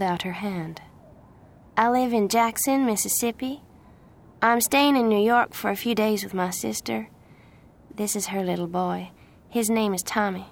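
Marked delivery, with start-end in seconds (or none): 1.8-10.5 higher-pitched Southern introduction; friendly Southern young woman. Acted. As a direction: introduce yourself openly in a Southern accent. Plays the Southern girl.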